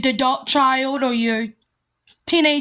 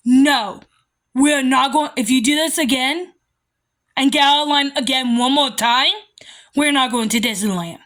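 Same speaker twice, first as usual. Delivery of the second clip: stern warning. Shown as a demonstration. Parent warning child about losing Disneyland, stern. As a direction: warn them calmly but firmly. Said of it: "You be stern".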